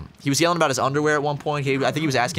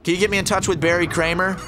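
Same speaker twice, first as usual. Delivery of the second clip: mild mock yell, pitched up; imitating yelling weirdo; 5 semitones higher than usual. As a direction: lightly do the ranting stranger's demand. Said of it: "he's just yelling nonsense".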